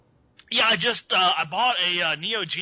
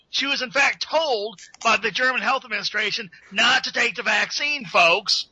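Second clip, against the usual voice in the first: a light conspiracy radio host voice, addressing the folks; Alex Jones impression. Caller playing a radio host for the podcast, lightly ranting. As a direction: lecture the audience like a paranoid broadcaster. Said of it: "that's better than fucking Alex Jones himself".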